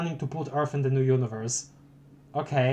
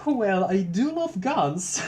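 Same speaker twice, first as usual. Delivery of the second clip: character voice; 6 semitones higher, much slower than usual. Pretend. Voicing a game character's line.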